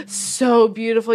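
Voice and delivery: gasping in awe; gasp, then gush; excited gasp. Retold or imitated. Gushing piercers.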